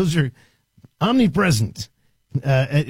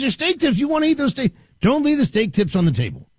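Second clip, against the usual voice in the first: put-on Southern accent; 9 semitones higher than usual. Retelling the dynamic trainer's line, Southern accent. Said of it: "bit of a Southern accent".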